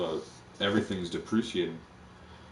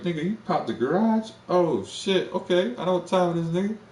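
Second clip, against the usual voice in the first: excited hood buddy; 9 semitones higher than usual. Retold or imitated. Hyped buddy voiced in the story.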